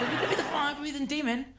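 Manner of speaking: lightly imitated high ridiculous rock star voice; a hint of a camp rock singer, fast; a famous rock singer's voice. To the band, a touch of a famous rock singer's voice. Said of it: "his ridiculous rock singer voice".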